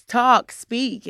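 loud urging, half-imitated; impatient command. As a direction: bark it like a frustrated parent. Family pushing her to speak.

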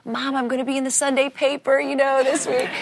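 put-on high-pitched girlish boast to Mom; excited bragging. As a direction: imitate yourself proudly announcing big news. Acts her excited younger self bragging.

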